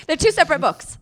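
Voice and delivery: high laughing correction. Real, not acted. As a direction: laugh through the words. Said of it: "laughing while correcting".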